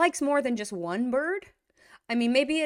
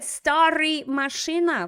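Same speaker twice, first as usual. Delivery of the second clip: «Старый машина» quoted louder, as the student said it; student's wrong version; 6 semitones higher, 6 dB louder, slower than usual. Retold or imitated. Teacher quotes the student's wrong adjective. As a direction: repeat the error back. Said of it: "And then he said".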